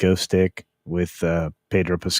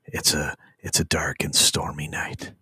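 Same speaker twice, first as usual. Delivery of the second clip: spooky whisper; 3 semitones lower, 6 dB quieter than usual. Acted.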